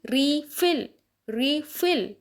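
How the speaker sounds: रीफिल stressed on FILL; रीफिल: light ree, heavy FILL; stress on second syllable. Shown as a demonstration. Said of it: "stress जाएगा second syllable पर".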